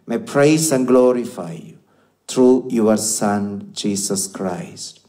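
solemn liturgical prayer voice. Acted. Priest prays the Mass aloud.

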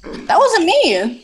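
high, drawn-out yell of denial; stretched-out indignant shout; loud protest. Real, not acted. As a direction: wail your innocence, slow and loud. Denying blame in the game.

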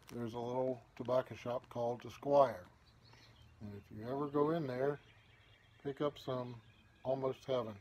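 talking around pipe stem; pipe in mouth. Real, not acted. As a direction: lips clenched on pipe. Seen 2: Corncob pipe stem clenched in mouth corner throughout speech; smoke visible.

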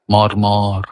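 মর্মর low and level, held in one place; soft held level. Shown as a demonstration. Reciter showing what fails to convey rustling, level low মর্মর. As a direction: say মর্মর on one low note without the glide. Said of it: "মর্মরটা বোঝানো যাচ্ছে না".

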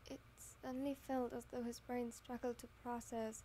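steady storytelling read; story narration. Acted. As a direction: read it like an audiobook. Reads fanfic narration aloud.

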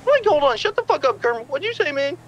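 Shaggy telling Kermit to shut up. Acted. Shaggy voice, louder.

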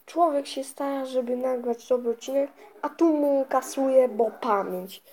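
worked-up, exasperated complaint; real annoyance. Real, not acted. Gamer grumbles to viewers about deleted recordings, annoyed. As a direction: complain with real frustration, pushing harder towards the end. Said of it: "zdenerwowany i to cham zdenerwowany".

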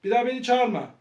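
soft-voiced dismissive play officer; pretend police officer. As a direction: scold the caller quietly as a make-believe officer. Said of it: "Polisleri arayıp geliyorum".

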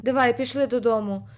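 ordinary talk, nothing marked

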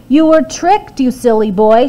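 mother scolds her son for the beans; scolding mother. A narrator's reading. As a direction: scold the foolish boy. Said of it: "she said".

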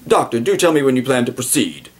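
light posh English calm; a polite, unbothered aristocrat; composed British gentleman. Retold or imitated. Uxbridge to the doctor, lightly posh English calm. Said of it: "he says".

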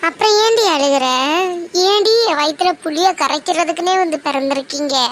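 mother snapping at her crying daughter; exasperated scolding. Acted. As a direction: snap at her in frustration.

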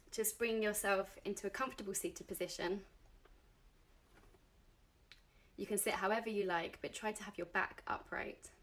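gentle guided-meditation delivery with long pauses. Acted. Meditation teacher guiding beginners to settle and close their eyes, guided meditation. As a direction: ease them into it, pausing between instructions.

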